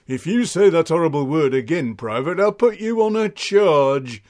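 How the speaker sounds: loud, stern reprimand; mock-furious sergeant laying down the law; scolding sergeant. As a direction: threaten a subordinate with full military bluster. Sergeant threatens the private.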